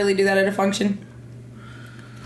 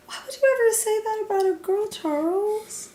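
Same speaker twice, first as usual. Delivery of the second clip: mock outrage; 12 semitones higher, 4 dB quieter than usual. Mock outrage at a Cyclops joke.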